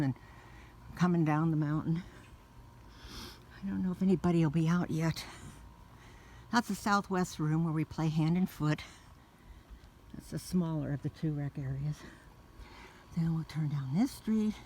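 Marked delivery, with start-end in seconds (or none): 3.6-5.2 breathless while walking; winded, talking between breaths. Real, not acted. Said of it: "Sorry if I'm so out of breath". 6.5-14.5 breathless from the walk; winded, short of air; out of breath. Real, not acted. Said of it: "Sorry if I'm so out of breath".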